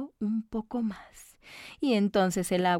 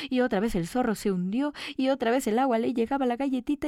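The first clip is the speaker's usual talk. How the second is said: ordinary delivery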